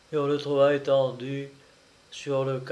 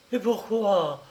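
aghast; 6 semitones higher than usual. Acted. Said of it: "atterrée".

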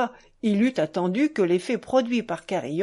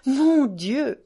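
father overwhelmed at his son's joy; moved exclamation; 4 semitones higher than usual. Acted. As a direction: let the second cry burst out. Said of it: "s'exclama le capitaine".

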